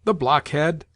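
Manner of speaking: scornful exclamation; a mild mock outburst at the landlord; exclaiming. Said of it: "exclaimed the grandmother in Russian".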